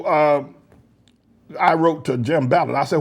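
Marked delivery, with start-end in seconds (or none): none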